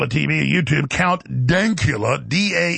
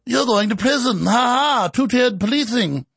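lightly voiced taunting enforcer, pitched high; mock authority; 7 semitones higher than usual. Host mimics police jailing critics, mock authority voice. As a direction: jeer with a mock ha ha.

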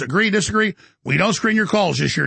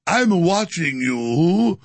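slow mock British accent, drawn out; a put-on British accent, playing the menacing watcher; fake British accent; slower than usual. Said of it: "with my fake British accent".

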